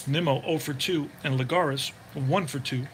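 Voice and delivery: steady broadcaster voice calling each pitch; play-by-play call. Acted. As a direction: call the game like a radio announcer. Sim baseball play-by-play calling.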